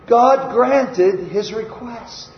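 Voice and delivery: slow, deliberate restatement; slow right down and spell out the good news; emphatic repeat. Real, not acted. Preacher repeating the verse to congregation, emphatic.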